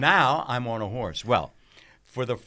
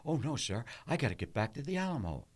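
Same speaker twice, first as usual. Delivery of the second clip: rattled off fast and offhand; quick flat read; 3 semitones higher, 7 dB quieter, faster than usual. Shown as a demonstration. Actor shows how he first read the line to Ford, fast and flat. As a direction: toss the line away quickly. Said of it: "This is the way I said it".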